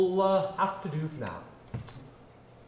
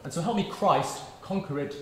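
impassioned speech; 3 dB louder than usual. Acted. Teacher's impassioned speech on English.

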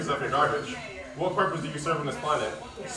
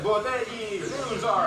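high mock of the opponent's voice; mocking imitation; 8 semitones higher, slower than usual. Mocking the other player's voice, high mock imitation. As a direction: parrot him in a silly high voice. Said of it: "He said".

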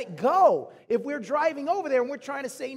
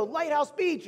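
lightly voiced little kid, higher pitch; small child's demand; 5 semitones higher, slower than usual. Three-year-old son to parents in the car, lightly imitated high demand. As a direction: imitate a toddler piping up. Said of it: "when he was about three or four".

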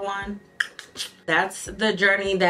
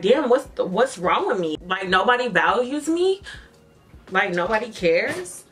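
emotional, hurt; 3 semitones higher than usual. Real, not acted. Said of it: "I just got a little emotional".

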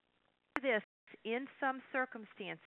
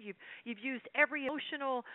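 ordinary talk, nothing marked

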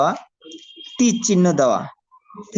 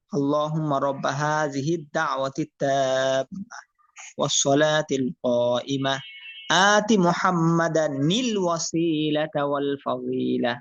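recited prayer; 3 semitones lower, much slower than usual. Shown as a demonstration. Recites adhan dua.

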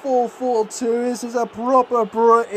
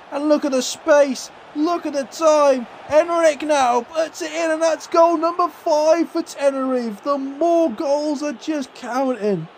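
rising higher call into the goal; excited build-up; 6 semitones higher than usual. Real, not acted.

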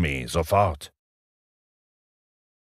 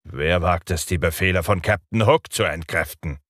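sly. Acted. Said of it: "hinterhältig klingend fragte".

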